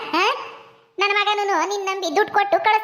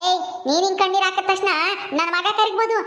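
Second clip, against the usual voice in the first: a lightly lowered voice for a harsh mother-in-law, ordering the bride out; scolding mother-in-law. Acted. Mother-in-law orders her son's wife to leave, stern and dismissive.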